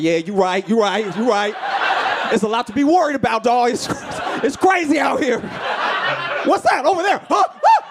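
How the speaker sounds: high, panicky talking dog; anxious dog voice. Retold or imitated. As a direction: build from nervous agreement to squealed alarm. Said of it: "and the dog's like".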